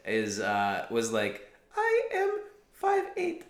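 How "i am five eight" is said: high, slow Russian woman voice; old Russian woman, drawn out; Russian accent. Retold or imitated. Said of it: "why is she an old Russian woman".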